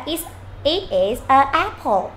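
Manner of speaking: slow "it is a apple" with "a" before the vowel; learners' article mistake. Retold or imitated. Teacher quoting a common learner slip, slow mock mistake. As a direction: mimic a learner saying "a apple", drawn out. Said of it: "có những bạn lại sẽ nói là".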